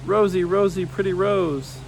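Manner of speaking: high, lightly tearful calling of names; a child's mild tearful wail; crying out. A narrator's reading. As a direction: call out to lost family through tears. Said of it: "crying out loud".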